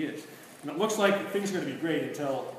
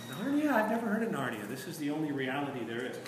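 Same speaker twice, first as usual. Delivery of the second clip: lightly voiced witch sowing doubt; mock innocent witch. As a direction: play dumb, sweetly, pitched up. Witch casting doubt on Narnia.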